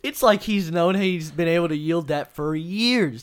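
laughing hard while talking. Real, not acted. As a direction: laugh through the words.

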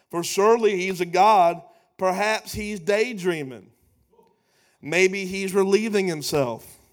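mild scoffing sarcasm; a touch of sneering taunt. Acted. Elijah scoffing at Baal's silence, mildly sarcastic. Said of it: "He scoffed".

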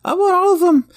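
put-on high, eager kid voice; little boy voice. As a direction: play a pushy little kid. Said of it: "you little boy up front".

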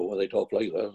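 lightly put-on Kerry Irish accent; quick touch of Tralee Irish accent. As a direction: imitate rural Kerry folk. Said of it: "my parents had come from Tralee, Kerry".

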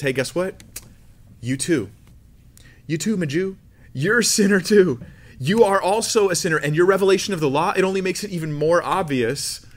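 loud, high, mock-accusing voice of Romans; hammed-up finger-pointing at the Jew; mock scolding. Preacher voices Romans chapter two as a loud mock accusation. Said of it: "that was a dumb joke".

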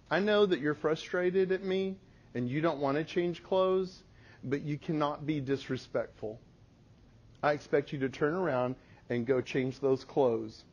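steady and calm, no anger; quiet firm parental voice; calm firm correction. Retold or imitated. Mom calm stern correction.

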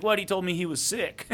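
high, startled disbelief; retold surprise. Golf pro learning his son shot the video, in surprised disbelief. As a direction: imitate the golf pro's stunned reaction. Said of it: "And he's like".

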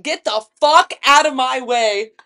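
retold angry order. Storyteller re-enacting barging into the room, angrily. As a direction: push past someone with the words.

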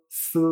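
"z" as Chinese si, hissed and held; silent I. Shown as a demonstration. Teacher recalling initial sounds, "z" with silent I. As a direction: say "z" like a long s without an i. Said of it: "la I no se pronuncia".

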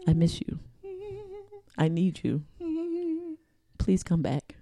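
hammed-up begging her to come back; mock tearful plea. Sister begging her sister on air, mock sad.

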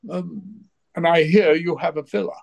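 a gentle hint of Gielgud's plummy complaint; imitating Gielgud. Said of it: "He said".

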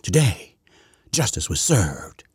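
slow, drawn-out pompous delivery; imitating her solemn theatrics; mock theatrical speech. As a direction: ham up a grand announcement, very slowly. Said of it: "she talks like this".

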